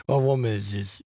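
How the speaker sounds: chuckling while speaking; laughing. Real, not acted. Laughing fondly while talking about his woman.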